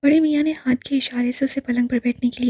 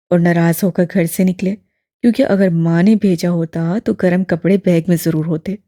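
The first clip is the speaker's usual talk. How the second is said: put-on low, louder elderly man, gently probing; lower, fuller old gentleman; old imam voice; 6 semitones lower, 5 dB louder than usual. A narrator's reading. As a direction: voice the old man, kindly and curious. Old man explains deduction.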